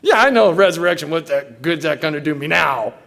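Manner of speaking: impatient, acted retort; upset. Martha answers Jesus' promise of resurrection, upset. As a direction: brush off the comfort, lightly exasperated. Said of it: "And she was upset".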